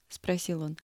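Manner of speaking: usual speaking voice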